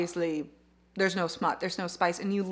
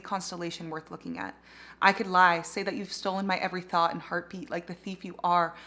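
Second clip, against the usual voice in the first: book passage read aloud; 3 semitones lower than usual. A narrator's reading.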